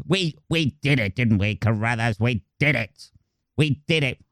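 a hint of a pompous general; posh general. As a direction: general boasting to Carruthers. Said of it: "the posh general".

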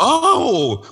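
high, imitated gasp of delight; excited oh. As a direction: mimic the wife lighting up. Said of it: "then she got all excited".

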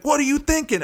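high mocking retort; imitating the other driver. Retelling the other driver's taunt, mocking high voice. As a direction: throw his taunt back, mockingly. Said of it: "he starts giving me this, like, tap in his brain".

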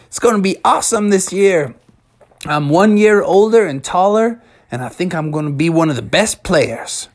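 lightly voiced, eager anticipation; a touch of excitement about the big game; excited young player. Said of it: "he was like".

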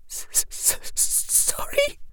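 stuttered, breathless whisper; trembling stammer. A narrator's reading. Hermione stammering in distress.

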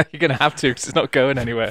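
laughing while talking; words through a laugh. Real, not acted. Both laughing at mic setup.

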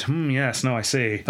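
lightly acted thoughtful hmm-ing; pondering Garfield. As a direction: play at mulling it over, stroking a beard. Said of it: "Garfield stroking his beard".

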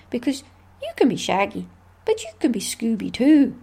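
a bad, hammy Irish accent. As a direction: put on a weak Irish lilt. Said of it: "Sorry for my really bad Irish accent".

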